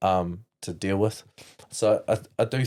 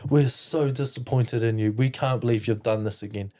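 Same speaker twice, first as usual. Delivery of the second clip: higher-pitched imitation of telling off; retold scolding; 4 semitones higher than usual. Grandparents scolding grandson for laughing, retold reproach. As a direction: mimic disappointed grandparents scolding.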